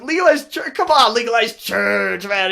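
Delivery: high-pitched pleading call-out; retold calling out. Shouting after a driver who's leaving, high mock plea. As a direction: re-enact a last-hope appeal, drawn out at the end.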